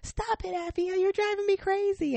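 imitating an older girl scolding her sibling; exasperated big sister. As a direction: whine it at your annoying sister. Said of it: "here comes Autumn".

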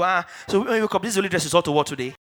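blurted, rapid-fire backhanded compliment; clumsy compliment. Acted. Tactless acquaintance complimenting someone on their dress, blurted fast. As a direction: rattle it off like a tactless admirer. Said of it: "intends to compliment you and just go".

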